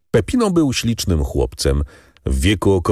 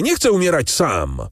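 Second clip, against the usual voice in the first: terrified plea; 10 semitones higher than usual. A narrator's reading. Condemned man's desperate outcry.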